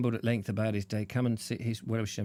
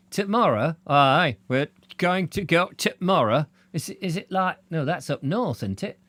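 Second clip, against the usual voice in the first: raised puppet voice without a swazzle; 4 semitones higher than usual. Acted. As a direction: chirp it like Punch minus the swazzle. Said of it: "No swazzle needed for the Vobes".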